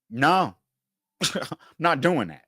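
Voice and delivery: the fierce version of "No, I'm not doing that"; bold refusal. Retold or imitated. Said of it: "I don't say that part".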